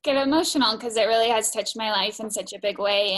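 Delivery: sigh, then struggle to hold it together; heartfelt, working through emotion; emotional. Real, not acted. Participant tells classmates the program touched her life, emotional. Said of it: "it's hard not to get emotional".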